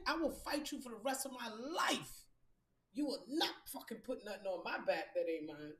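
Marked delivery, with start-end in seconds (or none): 0.1-4.8 menacing whispered vow; intense whisper. Real, not acted. Vowing to fight anyone who blames her, in a whisper.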